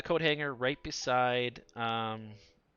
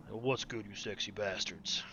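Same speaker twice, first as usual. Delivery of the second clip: a singer's voice; slower than usual. Shown as a demonstration. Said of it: "do, like, a singer's voice".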